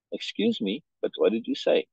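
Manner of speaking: a courteous question kept cold; polite but not warm. Shown as a demonstration. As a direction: ask it politely with no warmth. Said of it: "I hope I'm getting the inflection right".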